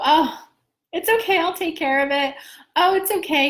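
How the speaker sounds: high-pitched breezy reassurance, imitated; lightly mimicked cheerful "no worries" voice; happy, reassuring. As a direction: play someone blissfully brushing off trouble. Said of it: "When someone's in the vibration of happiness".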